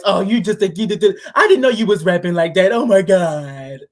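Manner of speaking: put-on baby voice. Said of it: "you gave her the little baby voice".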